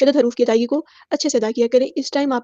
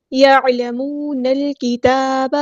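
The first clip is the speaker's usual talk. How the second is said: slow, drawn-out Quranic recitation; Tajweed recitation; much slower than usual. Shown as a demonstration. Teacher models the verse word, slow Tajweed recitation. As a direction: recite slowly, holding each long vowel.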